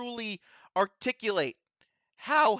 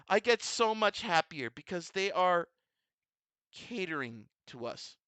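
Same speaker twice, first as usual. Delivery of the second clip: emotional laugh; 4 semitones lower, 4 dB quieter than usual. Real, not acted. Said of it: "I'm getting emotional".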